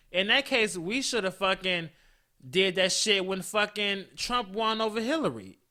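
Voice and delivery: venting into the podcast mic, fed up; angry rant. Real, not acted. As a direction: let it boil over at the world. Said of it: "I think I really just fucking snapped".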